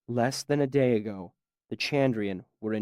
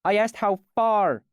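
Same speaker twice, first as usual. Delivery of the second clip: higher, louder sharp snap; snapped; 9 semitones higher, 5 dB louder than usual. Acted. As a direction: snap it back at him. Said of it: "she snapped at him".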